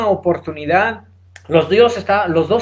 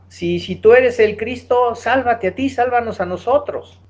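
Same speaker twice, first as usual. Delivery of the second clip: higher-pitched mock yell, no real shout; mildly raised, pitched-up retelling of a jeer; retold shouting; 5 semitones higher than usual. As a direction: imitate a desperate taunt without much volume. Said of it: "también le gritaba".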